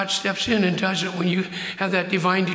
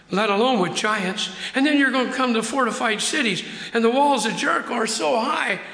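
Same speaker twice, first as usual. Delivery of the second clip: voicing God to Joshua; 3 semitones higher than usual. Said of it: "he said".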